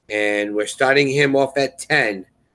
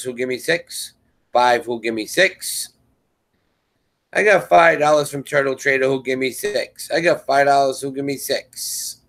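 auctioneer; 3 semitones higher than usual. Real, not acted. Auction chant through to sale.

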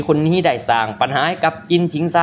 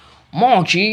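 drawn-out resonant summons; deep commanding call; 3 semitones higher, much slower than usual. A narrator's reading. Master calling his enemy out from the sky, weighty drawn-out call. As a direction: send the name out with weight, stretching the last syllable. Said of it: "น้ำเสียงที่นุ่มลึก".

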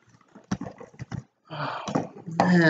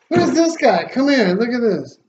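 much higher, gleeful squeal of delight; delighted surprise; 6 semitones higher than usual. Real, not acted. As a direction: coo over a cute little find. Delighted at cute item in box.

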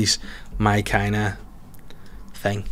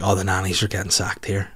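hushed gossip aside; 4 semitones lower, 5 dB quieter than usual. Retold or imitated. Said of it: "I was looking at being like".

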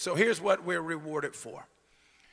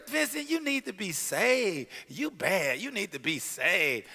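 mocking a woman. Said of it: "I literally am mocking a woman".

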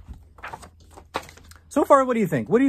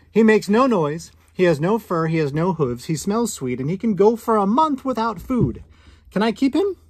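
put-on higher, eager child voice listing reasons; boy's hopeful plea, rising on the last question; pleading little boy; 6 semitones higher, 4 dB louder than usual. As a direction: sell it like a kid begging to keep a pet. Boy pleads for pet snake.

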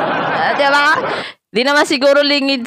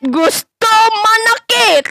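mocking; 8 semitones higher, slower than usual. Mocking rival's angry face.

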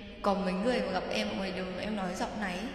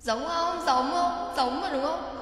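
excited asking; 5 semitones higher, 6 dB louder, slower than usual. Real, not acted. Asking if imitation sounds alike.

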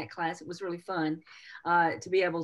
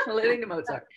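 laughing; 4 semitones higher than usual. Real, not acted. Host repeats the joke name, amused.

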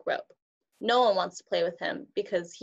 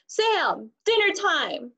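high, loud call across the yard; 9 semitones higher, 3 dB louder, much slower than usual. Acted. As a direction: call her in from afar. Dad calls from the yard.

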